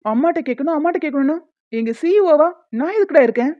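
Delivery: throwing the refrain back in annoyance; irritated boss losing patience, voice rising; exasperated outburst. Acted. Boss throws his assistant's refrain back at him, exasperated.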